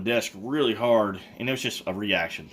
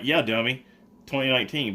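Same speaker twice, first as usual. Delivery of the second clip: mock condescending; 4 semitones higher, 3 dB louder than usual. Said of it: "look at me like I was an idiot".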